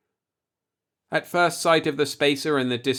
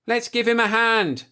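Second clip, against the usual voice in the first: put-on much higher, loud drunken shout; 12 semitones higher, 5 dB louder than usual. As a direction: yell it out to the crew. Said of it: "Farley shouted".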